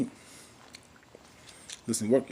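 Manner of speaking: slow, hushed, dragged-out whisper; drawn-out whisper. Real, not acted. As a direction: whisper it very slowly, stretched. Drawn-out breathy repeat after cough.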